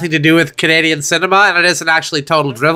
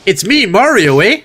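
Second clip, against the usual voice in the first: put-on Canadian-accented video game catchphrase; lightly voiced Canadian take, tagging on "eh"; catchphrase with a Canadian lilt; Canadian Mario. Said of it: "the Canadian version of Mario".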